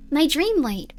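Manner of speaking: a lifted, falling lilt on the words; lightly voiced young girl. Girl confiding in her diary, lightly girlish read. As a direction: read it as a proud little girl.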